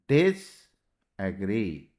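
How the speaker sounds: slow sounding out. Shown as a demonstration. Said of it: "teacher sounds out the word".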